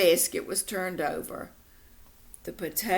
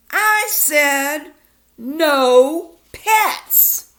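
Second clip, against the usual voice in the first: louder, higher scolding shout; angry yell; 7 semitones higher, 10 dB louder, much slower than usual. Acted. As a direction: lay down the law at full volume. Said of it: "yelled Mom".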